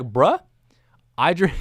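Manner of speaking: mock bro pep talk to himself; inner voice. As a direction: pump yourself up like a bro. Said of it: "I was like".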